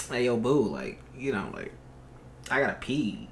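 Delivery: soft, breathy sweet talk into the mic; seductive whisper. Pretend. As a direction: murmur it low and soft like a smooth seducer. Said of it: "whisper into the mic, get all seductive".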